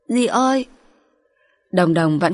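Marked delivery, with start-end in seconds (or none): 0.1-0.7 put-on higher childlike call; a little girl calling out to her aunt; young daughter. Daughter turning to her aunt, higher childlike voice.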